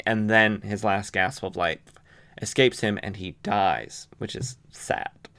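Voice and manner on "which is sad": hushed aside. Real, not acted. Mock mourning aside.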